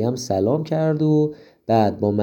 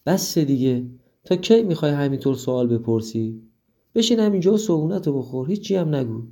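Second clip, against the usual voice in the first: sick, short-tempered mom snapping, quicker and higher by the end; mild scolding that speeds up; angry mother; 4 semitones higher, faster than usual. Acted. Sick mother losing patience with daughter's questions, mildly angry. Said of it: "عصبانی شد و گفت".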